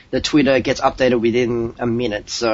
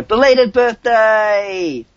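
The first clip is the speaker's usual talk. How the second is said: cheery birthday; 8 semitones higher, 4 dB louder, much slower than usual. Real, not acted.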